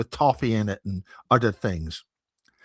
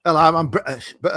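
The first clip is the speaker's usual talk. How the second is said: fake British accent; 3 semitones higher, 4 dB louder, faster than usual. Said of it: "a fake Brit-, British person".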